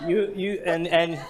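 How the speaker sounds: loud, fast laughing protest, pitch up. Real, not acted. Host laughs as she asks the poet to read instead, laughing loudly. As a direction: laugh it out, embarrassed at butchering the poem. Laughing while handing over reading.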